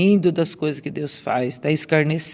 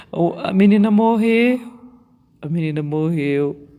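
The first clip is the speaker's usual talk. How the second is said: começa mais alto e agudo, zombando; imitando zombaria; 3 semitones higher, 4 dB louder than usual. Retold or imitated. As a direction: debocha como a multidão. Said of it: "eles riram dele zombando". (a multidão zombando de Jesus, em deboche encenado)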